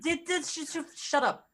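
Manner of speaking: high flustered stammer; a player snapping shut up at the table in a high squeak. Acted.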